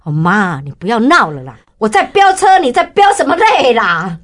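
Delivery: son scolding mom, jumping high on 飙车; playful son's mock complaint; teasing son. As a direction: tease her like an embarrassed teenage son. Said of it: "son's reply quoted".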